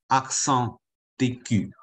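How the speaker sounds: slow teacher's model of "accent aigu"; careful French classroom pronunciation; pronunciation demo. Shown as a demonstration. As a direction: say "accent aigu" slowly, syllable by syllable. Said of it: "不知道怎么念".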